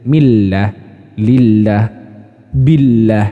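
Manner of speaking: Millah, lillah, billah with a light thin lam; light sound. Shown as a demonstration. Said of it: "Jadi ringan bunyinya".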